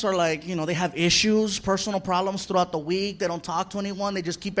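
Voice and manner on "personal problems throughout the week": ordinary delivery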